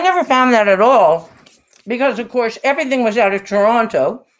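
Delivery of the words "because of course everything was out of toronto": talking with a mouthful of food; words pushed round a bite of food; mouth full. Real, not acted. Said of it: "Sorry for talking with my mouth full".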